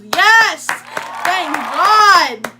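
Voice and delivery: high, loud cheer of relief; mock relieved cheer. Bob cheers seeing her go shower, loud mock relief. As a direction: cheer like it's about time. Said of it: "this dude literally goes".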